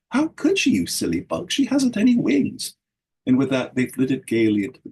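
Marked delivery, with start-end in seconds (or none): 0.1-2.8 laughing mockingly. A narrator's reading. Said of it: "Teasel laughed".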